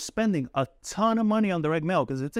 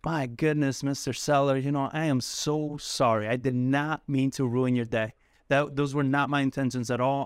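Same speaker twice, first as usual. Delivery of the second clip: very soft apology; 2 semitones lower than usual. Acted. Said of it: "I get very, very soft".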